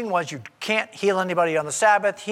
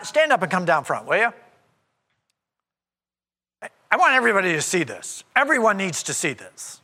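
open, quicker, for everyone to hear; public call out. Retold or imitated. Jesus calls the man down front before everyone, open and brisk. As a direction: invite the whole room to watch. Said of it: "Right in the middle of the service".

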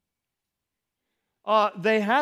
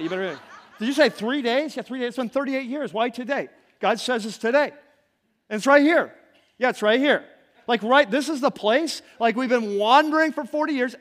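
loud, high, breathless back-and-forth with laughs; two voices trading thrilled questions and answers; excited camp chatter; 4 semitones higher, 6 dB louder than usual. Acted. Israelites in the camp hear the news, excited and loud.

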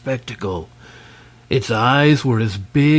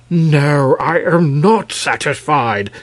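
firm declaration; 4 semitones higher, 4 dB louder than usual. Acted. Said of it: "declared King Terabus".

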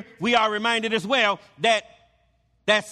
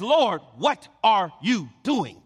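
incredulous; slower than usual. Retold or imitated. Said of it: "Peter is incredulous".

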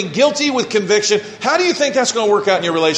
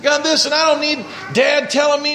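voicing defiant son; 4 semitones higher than usual. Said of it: "does he want the".

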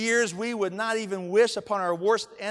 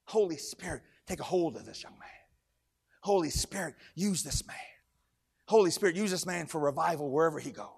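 low, hushed prayer for someone; retold prayer; 5 semitones lower, 6 dB quieter than usual. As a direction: pray softly, imitating an earnest blessing. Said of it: "He started praying about this Holy Spirit".

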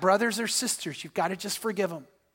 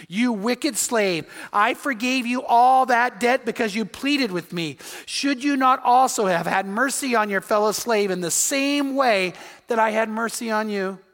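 stern rebuke; 2 semitones higher, 3 dB louder than usual. Retold or imitated. King rebukes the servant.

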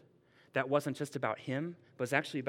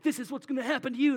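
higher, faster mock-dramatic warning; dramatic prophet; 9 semitones higher, 3 dB louder, faster than usual. Agabus warns Paul with a belt, mock-dramatic and high. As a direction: ham up the prophet's doom. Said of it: "he's kinda dramatic".

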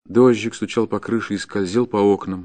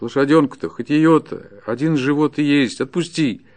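higher-pitched, desperate begging; despairing plea; 7 semitones higher, 4 dB louder than usual. Acted. Starving peasant pleads with the forester for mercy, despairing. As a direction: plead for your release, swearing by God. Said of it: "повторял он с унылым отчаянием".

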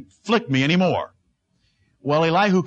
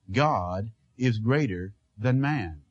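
hushed refrain; 7 semitones lower, 5 dB quieter, slower than usual. Real, not acted.

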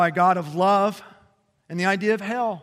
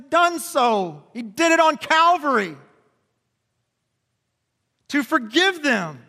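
preaching at full force; 7 semitones higher, 4 dB louder than usual. Real, not acted. Pastor preaching to the congregation about Jesus, fervent. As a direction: preach it with full force, slowing on key lines.

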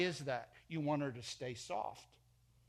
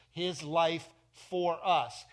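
very slow, louder, "laid down" stretched; slow solemn verse; 5 dB louder, much slower than usual. Shown as a demonstration. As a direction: let "He himself laid down," sink in, unhurried. Verse read slowly with weight.

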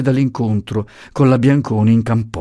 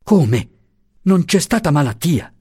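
a higher, horrified cry of disbelief; terrified exclamation; 6 semitones higher than usual. Acted. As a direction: recoil in shock at the news. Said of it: "esclamò atterrito". (esclamazione atterrita, più acuta)

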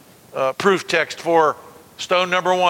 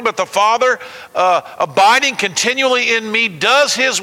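impassioned preaching read; 3 semitones higher than usual. Acted. Preacher reads Jesus' words to Philip, impassioned. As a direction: press the words home to the church.

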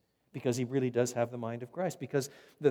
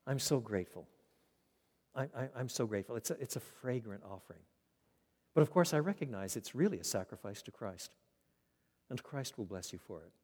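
softer, gently voiced heartfelt thanks; sincere gratitude; 4 semitones lower, 5 dB quieter than usual. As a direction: quietly thank them from the heart. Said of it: "but by saying".

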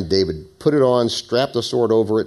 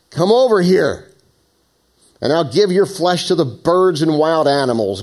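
raised, higher-pitched taunting call; Goliath yelling; 5 semitones higher, 4 dB louder than usual. A narrator's reading. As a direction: read it as a giant's challenge, moderately yelled. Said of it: "Goliath yelled".

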